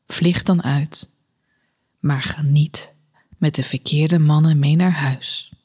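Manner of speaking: measured poem reading with pauses between lines; gedichtvoordracht. Acted. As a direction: read the poem evenly, letting each line settle. Draagt een gedicht voor. (rustige poëzievoordracht met pauzes tussen de regels)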